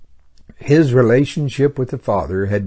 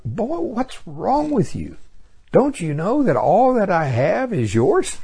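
father's voice; 9 semitones higher than usual. Retold or imitated. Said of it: "my grandfather's look".

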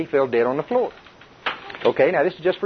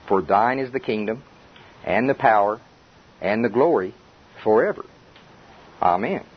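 reciting prayer; 4 semitones lower than usual. Retold or imitated. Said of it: "and he says".

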